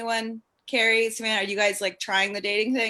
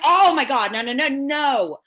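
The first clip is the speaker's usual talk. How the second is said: Dahmer protesting; 4 dB louder than usual. Retold or imitated. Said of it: "he was like".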